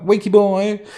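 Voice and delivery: high sing-song call of a name. Retold or imitated. Friend calling out for a missing mate. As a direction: call out the name like looking for someone.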